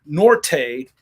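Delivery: put-on slow, clunky gringo Spanish in a thick American accent; mock American-accented Spanish. Mocking Americans who try to speak Spanish, in a heavy American accent. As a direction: butcher the Spanish like an American tourist, slowly. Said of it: "it's the American accent, you know, speaking Spanish".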